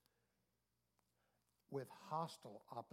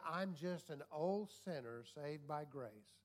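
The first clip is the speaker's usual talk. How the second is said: mock humble saying; slower than usual. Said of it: "when you say".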